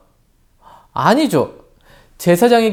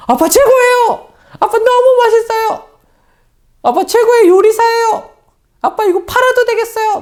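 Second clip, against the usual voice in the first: put-on little child's voice; 4 dB louder than usual. Pastor's children praising his cooking, high child voice. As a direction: gush like a small child praising dad. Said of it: "이런 목소리는 아니지만".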